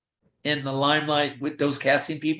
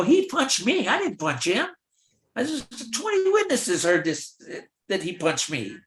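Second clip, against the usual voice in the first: much higher, pleading protest; protesting innocence; 9 semitones higher than usual. Retold or imitated. Extra protesting to the guild, high and insistent. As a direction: insist you were the victim.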